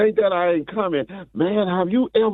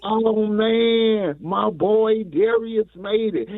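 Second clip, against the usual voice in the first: higher, drawn-out quoted praise; slow, raised-pitch mock admiration; imagined proud admirer; 4 semitones higher, much slower than usual. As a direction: imitate someone marveling at a friend's success. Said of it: "and she was like".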